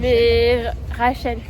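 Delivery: "Rachel" muffled by a blocked nose; blocked nose, nasal Rachel. Real, not acted. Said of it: "j'ai le nez bouché".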